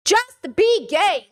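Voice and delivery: JUST BE GAY drawn out very slow and high; exasperated plea. Real, not acted. Urging the guy in the clip to just be gay, drawn-out exasperated plea.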